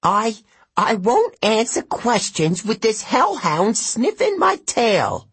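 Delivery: high, stammering, frightened satyr; nervous old satyr. A narrator's reading. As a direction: refuse while shaking with fear. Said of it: "knees started knocking".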